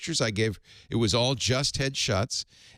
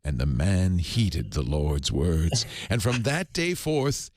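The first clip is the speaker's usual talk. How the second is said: 1 mock scripture narration; 5 semitones lower, slower than usual. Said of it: "so I'll do the accent of God".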